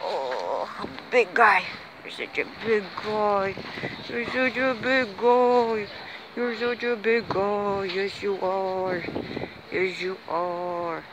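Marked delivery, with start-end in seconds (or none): 1.1-11.0 slow, doting pet talk; talking to a dog. Real, not acted. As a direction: gush over the big dog tenderly. Babbelt tegen hond. (liefkozend tegen de hond praten)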